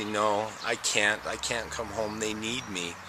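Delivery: hushed, earnest refusal to come home; quiet plea. Retold or imitated. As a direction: gently beg to stay with them. Refusing Christ, pleading to stay.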